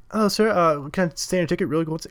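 high, loud, eager British usher; imitating ticket guy. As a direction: mimic an over-keen cinema ticket taker. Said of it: "I'm not even doing a British accent".

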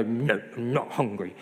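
mock-sulky little denial; grumpy child. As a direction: imitate a grumpy kid refusing. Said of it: "Harry would get all grumpy".

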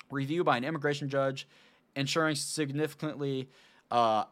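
tired, slurring the words; words running together from fatigue; slurred speech. Real, not acted. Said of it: "I'm sorry I'm slurring these words so bad".

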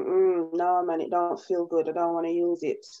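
light Jamaican accent on a retold man's excuse. Mocking a man refusing protection in a Jamaican accent. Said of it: "I love the way you put on the Jamaican accent".

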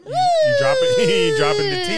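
high squealing disbelief; shocked squeal. Real, not acted. Shocked gossip reaction.

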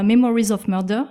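English title "Memories of Murder" said with French vowels and a French r; the title "Memories of Murder" pronounced the French way; French-accented English. Real, not acted. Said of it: "désolée pour mon accent, euh, anglais".

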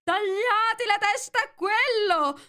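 high, loud, slow shout; furious queen shouting orders; queen yelling. A narrator's reading. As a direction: scream the order to behead him. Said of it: "di urlare".

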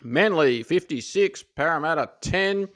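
talking through a mouthful of cake; words round a bite of cake; mouth full. Real, not acted. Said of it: "You got cake in your mouth".

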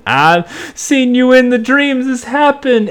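high, put-on girlish voice; Rachel. Girl telling detective about her dreams, high imitation. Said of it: "Rachel's going".

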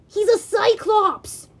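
loud, high, drawn-out alarm; urgent warning. A narrator's reading. Grover warns hero against sparing monster, urgent cry. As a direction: cry out to warn a friend. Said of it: "Grover warned".

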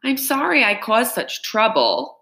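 put-on a girl hamming up her sorrow; wailing. Girl wailing her apology to the constable. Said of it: "Amanda wailed".

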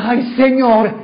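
lightly voiced sufferer sighing to God; mock weary lament. Preacher imitating a worn-out believer, mock lament.

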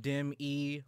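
"Dim E" slowly, E as in ear; separated syllables. Shown as a demonstration. Cohost explaining the name piece by piece, separated syllables. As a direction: split "Dim E" into two slow syllables. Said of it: "like E as in ear".

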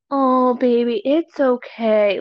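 slow, gentle cooing; lightly imitated tender voice; mock soothing. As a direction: comfort them like a baby, half in jest. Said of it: "or if they're talking like".

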